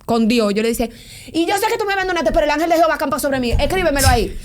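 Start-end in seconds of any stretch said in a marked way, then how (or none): 1.3-4.4 a touch of a fast, higher, defiant snap; half-hearted defiance, fast and raised; spiteful retort to God. Retold or imitated. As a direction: throw it at God in a huff. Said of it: "porque yo con pique".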